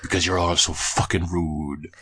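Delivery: slowed Jamaican-tinged Isaac punchline; lightly voiced Isaac, mock Jamaican; Isaac impression. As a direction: deliver the punchline as Isaac in a slow Jamaican lilt. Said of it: "that's not Isaac's accent".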